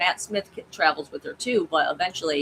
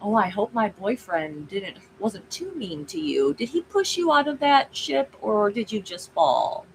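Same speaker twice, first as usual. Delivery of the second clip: mock-sweet taunt, pitched up in places; Missy; 4 semitones higher than usual. Missy needles the android about her boyfriend, taunting. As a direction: tease him in a put-on higher voice. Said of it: "she's basically kind of taunting the guy".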